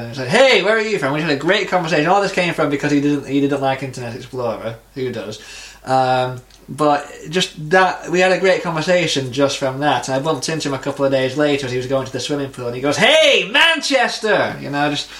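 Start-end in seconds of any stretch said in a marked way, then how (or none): 0.3-1.1 higher-pitched, lively acted hello; friendly greeting. Retelling how he struck up a conversation, friendly greeting. 13.0-14.5 high, drawn-out imitated holler; calling out. Passing acquaintance hails him by the pool, calling out.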